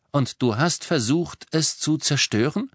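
pressing questioning. A narrator's reading. Boy wanting the whole story from the elf, insistent. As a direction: push him for the answer. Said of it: "drängte er unerbittlich weiter".

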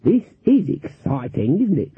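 put-on slow, giddy old lady; Granny feigning excitement; mock-thrilled granny. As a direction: gush like a flustered beginner. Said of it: "She blushed".

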